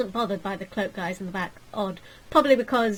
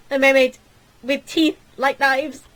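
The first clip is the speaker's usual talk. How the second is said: alarmed shout; 4 semitones higher, 9 dB louder than usual. Acted. Horror at mermaid.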